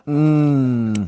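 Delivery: drawn-out hum of enjoying food; moan of pleasure. Acted. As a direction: savour it out loud, shamelessly. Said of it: "I can't believe this".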